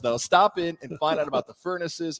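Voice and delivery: ad plug, pushed out through a laugh; laughing ad read. Real, not acted. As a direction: keep selling while you crack up.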